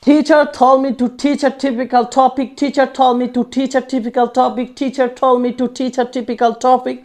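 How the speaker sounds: slow, even repetitions of the line; patient teacher repeating a drill; slow practice repeats. Shown as a demonstration. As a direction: drill the twister line by line, steady and clear. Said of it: "তিন চারবার বলার practice করি".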